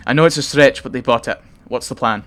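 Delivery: a hint of a Scottish hunter; Scottish accent. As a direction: blurt the grim news in a Scottish accent. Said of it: "Rook's Scottish".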